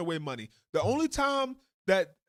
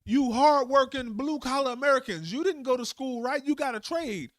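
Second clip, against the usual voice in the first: higher, coaxing politician pitch; a lightly voiced smarmy senator rallying workers; mock persuasive politician; 6 semitones higher than usual. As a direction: sweet-talk the voters like a slick politician. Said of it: "They'll get the Americans".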